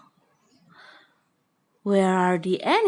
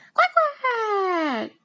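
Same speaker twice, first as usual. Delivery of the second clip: duck quack; 10 semitones higher than usual. Pretend. Teacher imitating duck.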